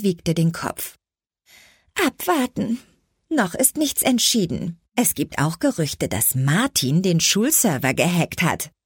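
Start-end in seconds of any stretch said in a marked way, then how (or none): 2.1-8.7 teasing friend. Acted. Merle voiced in dialogue.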